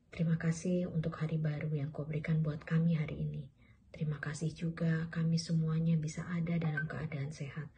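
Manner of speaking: prayer. Real, not acted. Leads a prayer for children.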